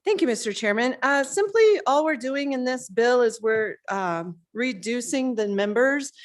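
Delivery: winded after rushing upstairs; catching breath between words. Real, not acted. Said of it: "I'm out of breath".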